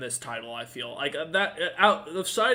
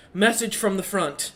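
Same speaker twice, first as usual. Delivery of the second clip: put-on young orc messenger; 5 semitones higher, 5 dB louder than usual. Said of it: "he looks up and goes".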